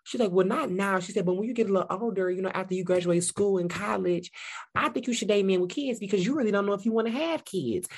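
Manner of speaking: high, light impression of a friend; imitating India. Friend India giving dating advice, high mock voice. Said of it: "India was like".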